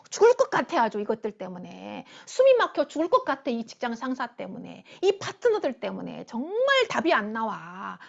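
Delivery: hammed-up exasperation, each grievance bursting out then dropping; irritated grumbling. Preacher mimics a worker fed up with boss and partners, irritated. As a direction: moan about impossible coworkers. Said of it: "원망하고 불평하고 짜증내잖아요".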